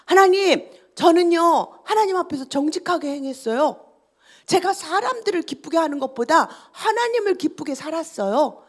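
retold prayer declared loud and high, then easing; bold, upright declaration; confident prayer. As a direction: state it to God with confidence, imitating the king. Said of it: "당당하게".

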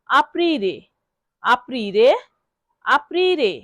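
aprire as ap-REE-reh, falling, rising, falling; model pronunciation. Shown as a demonstration. Teacher drills learners on aprire, careful model pronunciation. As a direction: sound out "aprire" with a long REE, pausing after each. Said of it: "বারবার শব্দটি উচ্চারণ করব".

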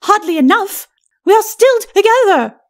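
high-pitched lady's retort; high, emphatic ladyship; dismayed lady. Acted. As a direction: answer as a haughty, displeased wife, pitched well up. Lady retorts to her husband.

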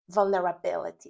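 "vulnerability" with the stress on "bi"; vulne-ra-BI-li-ty in "vulnerability", teacher's model. Shown as a demonstration. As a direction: demonstrate "vulnerability", leaning on the syllable "bi". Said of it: "zaakcentować właściwą sylabę. Tutaj by".

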